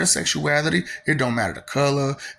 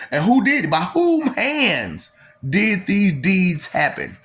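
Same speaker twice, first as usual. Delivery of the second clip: preaching challenge; 4 semitones higher, slower than usual. Real, not acted. Preaching rhetorical questions.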